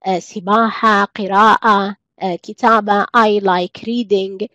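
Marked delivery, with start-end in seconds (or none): 3.0-4.5 drawn-out teacher modelling; slow classroom example; very slow model sentence. Shown as a demonstration. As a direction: let each word hang for learners. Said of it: "teacher models English sentence".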